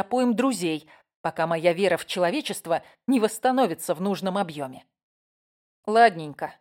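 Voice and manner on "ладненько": flat robotic monotone. Acted. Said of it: "голосом робота произнесла я".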